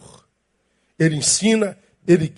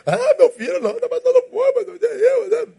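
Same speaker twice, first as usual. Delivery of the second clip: much higher, whiny coddling parent; mock indulgent parent. Pastor mocking a parent pitying a hungry child.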